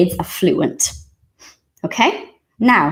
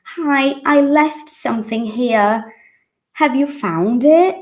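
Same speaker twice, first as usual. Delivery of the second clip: brightly voiced hotel guest, a bit higher; politely asking at a front desk; acting out a claimer; 6 semitones higher than usual. Shown as a demonstration. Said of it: "and you say".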